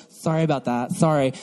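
throwaway mock sorry; lightly imitated careless sorry; insincere apology. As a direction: mumble an apology you don't mean. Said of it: "they don't give real apologies".

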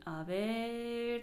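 アベール said strongly and stretched; emphatic a ver. Shown as a demonstration. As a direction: punch アベール while searching. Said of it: "強めに".

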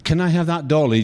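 lightly voiced girl pleading for a doll; a hint of a small child wheedling; child asking sweetly. Little girl begging her mum for a doll, lightly voiced. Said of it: "she said".

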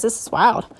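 nervous and breathless; short of breath from nerves. Real, not acted. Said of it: "I'm out of breath".

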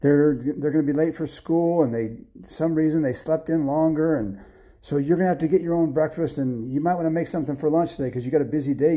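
a hint of a busy mother; wife explaining. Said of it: "And she goes".

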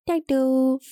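lightly voiced toddler saying thanks; a hint of tiny-kid pronunciation; toddler imitation. Parent mimicking little son's thanks, light toddler voice. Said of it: "Finn this week has been saying thank you".

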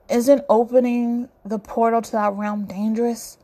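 worried question; a touch of unease; concerned. Acted. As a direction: ask it with real concern. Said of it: "Malcolm asks concern".

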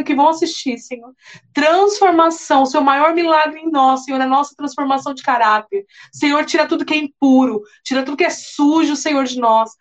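earnest praying voice; fervent prayer. Acted. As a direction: pray it fervently. Leads a prayer.

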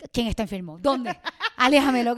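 mock alarm, laughing through it; laughing mock panic. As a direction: pretend to panic while laughing. Panicked retold reaction, laughing.

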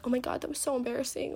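put-on light valley girl gush; a hint of a valley girl. Teen mocking someone fretting over embarrassment, light valley girl voice. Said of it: "what this voice is that I keep doing".

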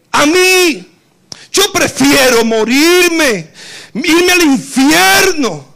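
clamor agudo y fuerte, casi gritando; Pablo suplicando. Retold or imitated. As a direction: suplica dispuesto a todo por su pueblo. Pablo clama por su pueblo. (Pablo rogando con pasión)

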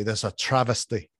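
attempted Scottish accent. Quoting Scottish ancestors on pricey chips, rough Scottish accent. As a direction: have a go at a light Scottish accent. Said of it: "ancestors from Scotland would say".

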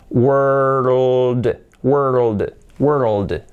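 "world" stretched through r and dark l; slow tongue demonstration. Shown as a demonstration. Teacher showing what the tongue does, slow demonstration. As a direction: roll slowly from r into l in "world". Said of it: "Mi lengua va haciendo".

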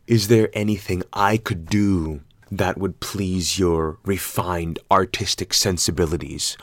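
mock polite jab. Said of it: "called this motherfucker out".

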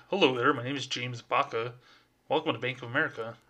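lightly put-on bank greeting, brisk at the end; a hint of a polished teller voice; fake customer-service voice. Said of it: "that's my fake voice".

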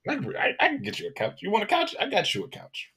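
high, fast eager promise. Pretend. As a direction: oversell it eagerly. Mocking eager couch offer.

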